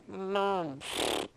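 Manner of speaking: soft, muffled baby grunt, barely voiced. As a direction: imitate a baby quietly filling its diaper. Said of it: "then you hear them go".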